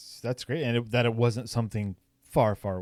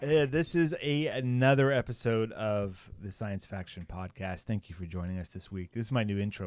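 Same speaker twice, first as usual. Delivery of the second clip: sexy voice; 3 dB quieter than usual. Pretend. Trying a new intro on the guys, playfully sexy voice. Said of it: "the sexy voice going".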